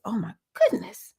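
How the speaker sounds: high, loud, rushed wail of despair; mock panic, voice shooting up; overwhelmed wail. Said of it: "I was just like".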